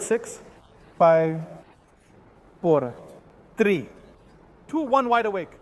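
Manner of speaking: steady, soothing trance guide. Acted. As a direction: lead them down, then count up.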